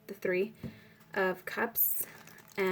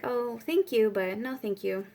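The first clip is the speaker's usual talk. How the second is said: very polite; 2 semitones higher, slower than usual. Retold or imitated. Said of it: "you say it in a very polite way".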